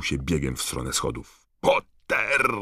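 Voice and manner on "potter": high, loud shout of a surname; sharp call. A narrator's reading. Snape calls out to Harry. (ostre, głośne zawołanie)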